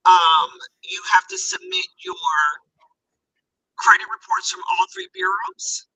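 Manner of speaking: muffled, as if underwater. Real, not acted. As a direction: voice muffled by a hand over the mic. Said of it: "Sound like you're underwater a little bit".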